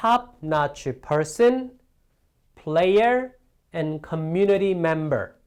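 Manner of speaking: list tune: rise on person, player, fall on member. English list intonation lesson, rise on person and player, fall on member. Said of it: "A, B, 인데 C 억양을 올리고 올리고 내려주는".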